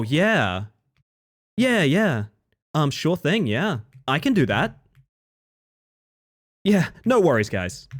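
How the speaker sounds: lightly voiced polite service tone; chirpy helpful stream voice; customer service voice. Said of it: "their customer service voice is like".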